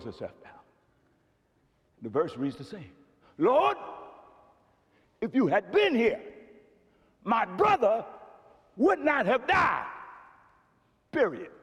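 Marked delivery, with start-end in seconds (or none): 3.4-9.9 Mary's lament. Retold or imitated. Mary throwing herself down before Jesus, final lament. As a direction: state it flatly and finally. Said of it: "Mary goes".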